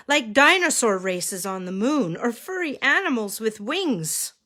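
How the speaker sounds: animated picture-book narration with swooping emphasis; reading to children. Acted. Reads picture book aloud.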